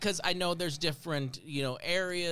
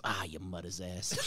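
much lower, slow mock shout of a Queens dad; gruff Queens dad impression; 11 semitones lower, 7 dB quieter than usual. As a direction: bark it like an old Queens dad. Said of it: "he goes".

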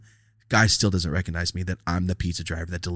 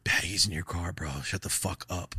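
inner self-warning; 6 dB quieter than usual. Retold or imitated. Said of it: "in my head, I'm like".

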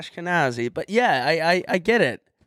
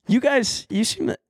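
slightly toned-down stage voice, starting high; retry the crowd-work line in a put-on voice; different voice; 7 semitones higher than usual. Nervous comic redoing the line for coaches, different voice. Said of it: "totally did a different voice".

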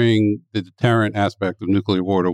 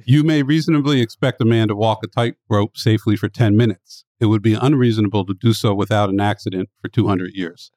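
serious, measured quote reading; straight reading. Real, not acted. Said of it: "I'm gonna read it straight".

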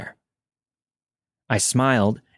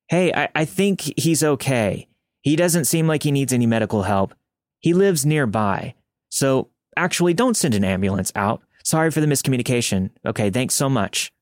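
higher, bright cancel-the-call act; fake reassurance; 4 semitones higher than usual. Mother faking a call-off to 911 for the armed man. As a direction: pretend everything's fine for the man listening. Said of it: "Pretend to tell me not to come".

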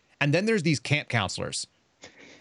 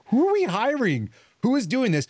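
shocked disbelief; 12 semitones higher, 3 dB louder than usual. Retold or imitated. Agent reacts to news that she made the men cry too, high and disbelieving. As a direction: sound floored by who gets hired.

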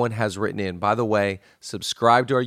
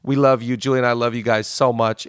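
heartfelt thanks; 4 dB louder than usual. Real, not acted.

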